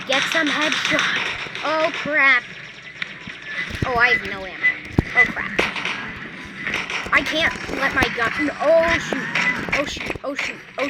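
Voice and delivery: loud, frantic bursts; panicking gamer. Real, not acted. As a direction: yelp each line in a panic. Losing a gunfight, out of ammo.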